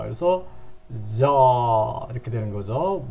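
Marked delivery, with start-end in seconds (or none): 1.2-2.1 "저" drawn out, starting on a buzzed z-like j. Shown as a demonstration. Teacher shows how "gi" sounds, "저" held long with a j/z onset. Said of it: "지읒 발음을 낸다고 봐야".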